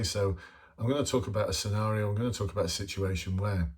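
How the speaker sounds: quick, casual and natural; just say it like a person; natural phrasing. Shown as a demonstration. Showing candidates how to sound authentic, casual and quick. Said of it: "why don't you just say".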